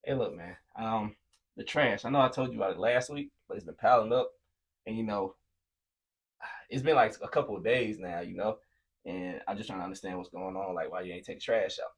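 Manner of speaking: calm patient talk. Retold or imitated. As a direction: talk it through with the roommate calmly. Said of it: "now go talk to him".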